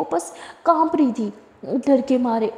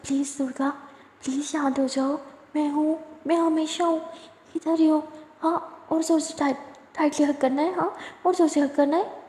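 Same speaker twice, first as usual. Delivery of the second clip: tender comfort; 2 semitones higher than usual. Acted. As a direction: hold her and murmur that you're here. Tender comfort after a kiss.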